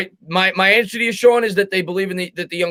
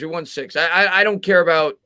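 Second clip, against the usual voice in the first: usual speaking voice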